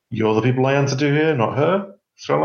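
lightly voiced obsequious maitre d', rising; a hint of a fawning waiter; maitre d' aside. Maitre d' addressing the players.

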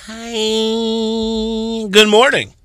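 bright high newscaster greeting; anchor voice. Pretend. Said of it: "what was that anchor voice?".

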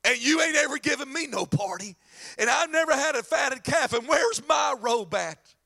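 jealous brother's indignant demand; mad older son. Acted. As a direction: throw the unfairness back at dad. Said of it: "And the son's mad".

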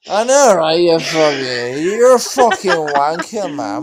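Caps impression. S0 swearing affectionately at S1 as Caps. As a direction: drag out the insults like mock Caps. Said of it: "our best impersonation of you".

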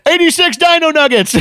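high, loud chef bark; mock kitchen yell. Epstein's chef yelling orders, high loud mock shout. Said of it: "And he's like yelling".

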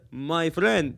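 imitated Arab haggler's accent. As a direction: put on an Arab merchant's accent. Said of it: "When the Arab man says".

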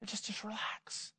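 soft unvoiced hush, just relax; whisper. Preacher hushing a startled congregation, whispering. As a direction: breathe it out to calm the room.

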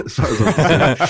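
laughing through the words. Real, not acted. Guy laughing about leaving his bone behind, laughing. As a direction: breaks into a laugh mid-line.

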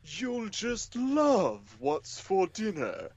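slow, high, stiff robot voice. Retold or imitated. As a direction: play a creepy dinner robot, slowly. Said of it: "the robot says".

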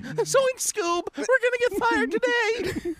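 high, slow cartoon stoner voice; Shaggy voice. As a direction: drawl it like Shaggy. Shaggy impression.

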